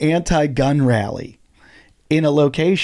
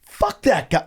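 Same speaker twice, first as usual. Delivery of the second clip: higher, slow outraged call; retold yell; 8 semitones higher, slower than usual. Comic yelling at the man who punched a guest, retold yell. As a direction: drag it out in outrage.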